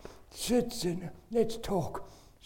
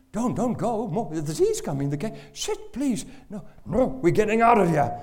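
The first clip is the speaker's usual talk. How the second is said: desperate pleading; 6 semitones higher, 7 dB louder than usual. Retold or imitated. Father begging visitors to stay.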